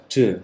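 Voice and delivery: 드 sounded out alone; final sound 드. Shown as a demonstration. Teacher showing how respond ends, 드 sounded out alone. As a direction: isolate the ending 드 as one syllable. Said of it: "발음이 드로 끝나죠".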